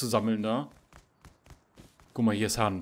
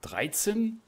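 ungläubig; 10 semitones higher than usual. Real, not acted. Ungläubige Nachfrage zu Leben.

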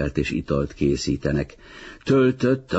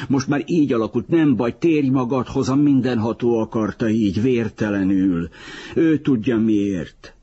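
high-pitched narrated exclamation; shouted; 6 semitones higher than usual. A narrator's reading. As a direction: call out higher, trying to settle someone down. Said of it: "kiáltotta Filó, aki nem szokott kiabálni". (magas hangú, csitító kiáltás)

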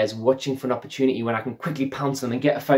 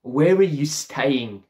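slow awkward question; much slower than usual. Retold or imitated. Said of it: "None of that".

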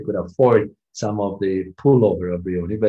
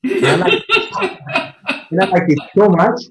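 laughing through the words; giggling while telling it; real laughter breaking into the line; 9 semitones higher, 3 dB louder than usual. Real, not acted. Laughing at the memory.

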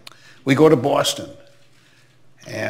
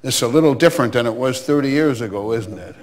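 stern; 4 dB louder than usual. Retold or imitated. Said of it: "in her stern way".

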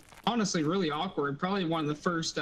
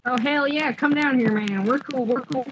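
loud, raised, welcoming holler; hearty calling out; 6 semitones higher, 8 dB louder than usual. Real, not acted. Player calls a stranger down to the squad, loud welcome. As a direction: holler them down to join you.

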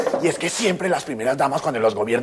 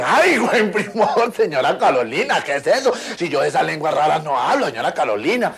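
laughing reply; 3 semitones higher, 3 dB louder than usual. Retold or imitated. Responde riendo.

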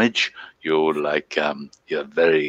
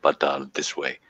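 a lightly voiced smug character accent; put-on Big Daddy-o voice; 3 semitones higher than usual. Co-host teases the accent, answered in the lightly voiced character. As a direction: stay in the lover character, deadpan. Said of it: "I'm impressed with the accent".

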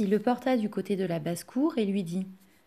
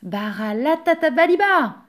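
higher, louder magic word; ringing command, raised in pitch; crying out; 5 semitones higher, 6 dB louder than usual. A narrator's reading. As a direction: exclaim the spell to stop it. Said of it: "le pauvre Yannick s'écria".

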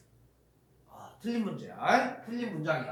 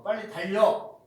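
louder order; command; 3 semitones higher, 5 dB louder than usual. Shown as a demonstration. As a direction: snap out the command. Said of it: "명령하는 것". (크게 재촉하는 명령)

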